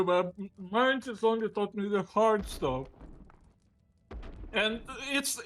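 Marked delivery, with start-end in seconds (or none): 0.0-2.9 talking with a mouthful of food; words mumbled round a mouthful; mouth full. Real, not acted. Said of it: "with your mouth full".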